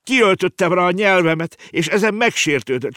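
put-on high, wailing little girl; acted sobbing. Girl confessing she offended the whale, sobbing. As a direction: whine it out tearfully, pitched high. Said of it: "zokogta a kislány".

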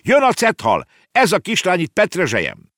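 put-on high, loud alarmed boy; urgent shout. Boy warning uncle of the whale, shouting. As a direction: cry out the warning at high pitch. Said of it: "kiáltott rá Konrád".

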